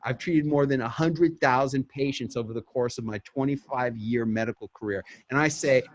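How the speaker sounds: doctor pitching her segment to a producer, brisk and confident; pitch talking points. Shown as a demonstration. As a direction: rattle off the facts like a pitch. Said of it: "And then you say".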